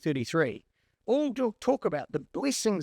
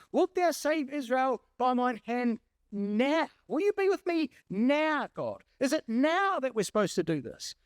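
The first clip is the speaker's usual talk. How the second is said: pleading Gideon; 6 semitones higher than usual. Acted. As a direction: beg God for a sign, voice lifted. Gideon's prayer voiced by preacher.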